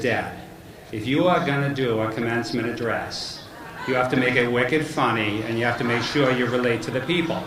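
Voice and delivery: lightly imitated Boston accent. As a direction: mimic a son's Boston accent. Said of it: "what's with the Boston accent?".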